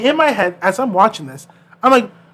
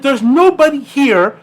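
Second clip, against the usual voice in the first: exasperated skater; 4 semitones higher, 3 dB louder than usual. Retold or imitated. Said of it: "He's like".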